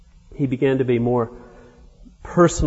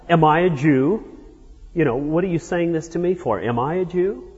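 higher, sharper indignant questions; indignant retort; 5 semitones higher than usual. Retold or imitated. Pilate bristling at Jesus, mildly indignant and higher. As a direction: push the question back in mild offence.

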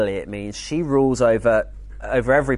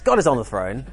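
lightly imitating a posh English accent; a hint of a posh English accent, quoting a friend; mild posh English accent. Preacher mimics Christian Stewart's calm reassurance in a light posh English accent. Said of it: "slightly kind of pucker English accent".

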